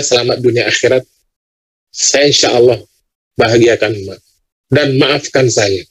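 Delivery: low, subdued plea for forgiveness; retold tearful apology. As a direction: gently retell a son's humble apology, pitched low. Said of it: "menangis sejadi-jadi".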